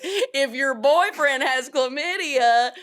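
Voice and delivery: exaggerated Southern drawl on the catchphrase; Southern accent. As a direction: say it like a Southern preacher, slowly. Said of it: "really Southern accent".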